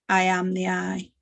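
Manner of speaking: measured mantra, settling on the out-breath; mantra demo. Shown as a demonstration. Teacher shows the group the out-breath line, meditative mantra. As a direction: intone it evenly as you exhale. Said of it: "exercise goes like this".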